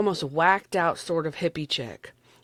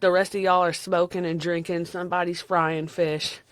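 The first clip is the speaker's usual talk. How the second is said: Southern accent. Real, not acted. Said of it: "God, I sound so Southern".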